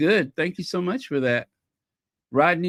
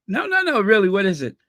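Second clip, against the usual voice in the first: mock eager insistence; 3 semitones higher, 4 dB louder, faster than usual. Acted posh fashion exchange.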